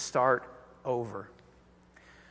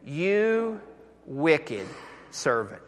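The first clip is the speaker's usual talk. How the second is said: master's rebuke; much slower than usual. Retold or imitated. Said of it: "the master called the servant in and said".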